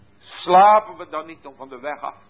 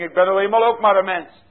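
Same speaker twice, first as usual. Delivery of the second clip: quick, louder, mocking excuse; 5 semitones higher, 5 dB louder, faster than usual. Preacher mimics a churchgoer's excuse, quick and mocking. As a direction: toss off the excuse lightly. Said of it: "zo'n soort verschoning".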